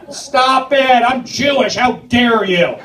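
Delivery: mock indignation. Mock indignant Jewish rant.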